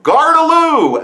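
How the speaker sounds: stretched, high-pitched street call; yelled warning. Retold or imitated. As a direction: call it up from a window to warn the street. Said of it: "would literally yell out their window".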